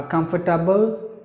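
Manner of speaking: comfortable in four syllables, kum-fer-tuh-bul; another common way. Shown as a demonstration. Teacher showing another variant, comfortable with all four syllables. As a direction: keep the middle fer in comfortable, rising. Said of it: "some would say".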